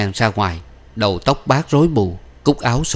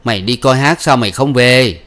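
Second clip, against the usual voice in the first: put-on louder, accusing old man; mildly acted angry father; scolding father; 3 semitones higher, 6 dB louder than usual. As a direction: scold the daughter for lying. Father scolds lying daughter.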